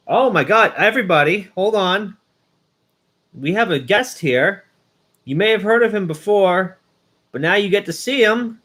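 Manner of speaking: high, bright host hype; excited stream host; excited announcement. Real, not acted. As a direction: introduce the special guest with a thrill.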